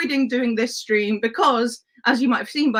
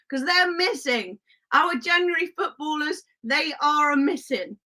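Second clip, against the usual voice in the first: hammed-up Wild West accent; rally the posse in a mock cowboy twang; 2 semitones higher than usual. Streamer asks chat to hunt missing footballers, mock cowboy accent. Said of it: "no, not the accent".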